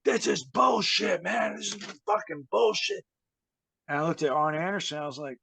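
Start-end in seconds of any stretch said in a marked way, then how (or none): 0.0-3.0 imitating angry Booker. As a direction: whine it out like a sore hothead. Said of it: "He's like".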